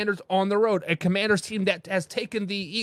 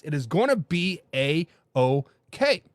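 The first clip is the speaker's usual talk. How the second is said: reassuring fans; 3 semitones lower, slower than usual. Acted.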